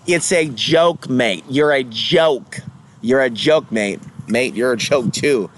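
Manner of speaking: heavy English accent, slow and mocking. Vlogger mocking David Icke in a heavy English accent. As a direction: lean into a mock English accent. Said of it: "Heavy David Icke accent impression".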